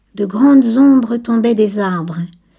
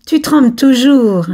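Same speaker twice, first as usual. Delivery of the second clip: teasing with a laugh; 3 semitones higher, 6 dB louder than usual. Acted. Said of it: "lui cria Laurent en riant".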